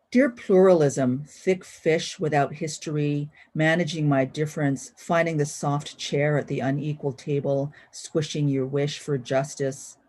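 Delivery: slow, measured poem recital; poetry reading. Acted. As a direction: savor each line as you read your poem. Reads poem number thirty-six.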